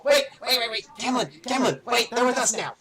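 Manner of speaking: high, loud urgent shout to stop him; frantic calling out. Acted. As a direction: yell from behind to halt the stabbing. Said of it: "you just hear Neros from behind go".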